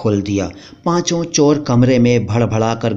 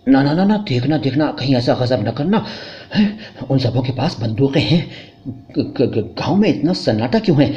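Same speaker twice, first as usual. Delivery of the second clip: panicky hushed pleading. Acted. Husband panics, begs wife not shout.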